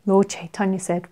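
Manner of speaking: ordinary delivery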